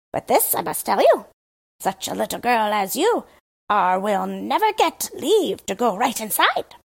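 the Crow boasting of the grand court; storyteller's Crow. Acted.

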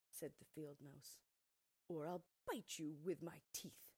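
loud, threatening, slowing at the end; scolding field mouse. Acted. Field mouse threatens Thumbelina to accept the mole, loud. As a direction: scold the stubborn girl into obeying.

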